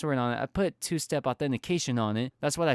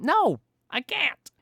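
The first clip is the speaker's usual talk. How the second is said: high, slow, drawn-out sarcastic denial; a sky-high, slow, mocking no; 11 semitones higher, slower than usual. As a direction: answer your own question with scornful mockery. Sarcastic answer to own question.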